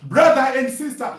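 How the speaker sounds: normal talking voice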